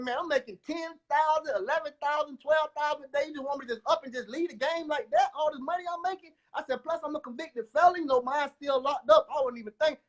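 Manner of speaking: high, excited retelling of his own protest; retold protest. To his girlfriend, protesting about leaving the game, high excited voice. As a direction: pitch up and argue against leaving the money.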